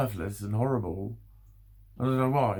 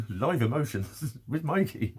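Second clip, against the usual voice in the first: laughing; 2 semitones higher, slower than usual. Real, not acted. Laughing sign-off.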